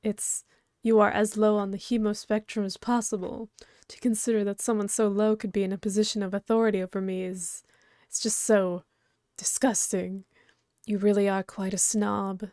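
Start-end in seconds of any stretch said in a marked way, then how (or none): 0.8-10.2 whisper. Acted. Haughty character insults the player.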